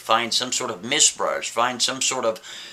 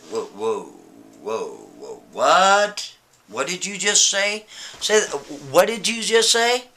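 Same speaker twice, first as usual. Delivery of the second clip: startled; slower than usual. Acted. Startled painter hears whispers.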